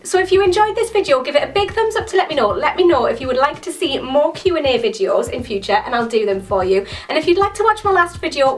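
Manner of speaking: upbeat, quick youtuber sign-off; energetic subscribe pitch; bright outro plug. Acted. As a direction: sell it like a cheerful channel plug. Outro call to action.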